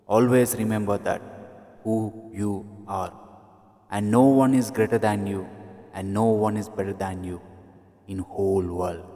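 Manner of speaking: slow, solemn advice. Acted. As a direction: drive every word home slowly. Future self gives solemn advice. (నెమ్మదిగా, గంభీరంగా సలహా)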